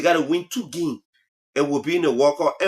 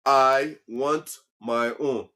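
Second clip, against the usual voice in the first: slow, insistent; 4 semitones lower, much slower than usual. Shown as a demonstration. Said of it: "repeats the demand".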